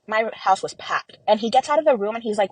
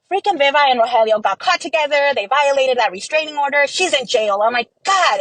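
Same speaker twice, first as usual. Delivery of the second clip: louder, higher burst of alarmed thought; retold alarm; 5 semitones higher, 4 dB louder than usual. Telling the thought on hearing police at the door, alarmed. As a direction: relive the jolt of jumping to the worst.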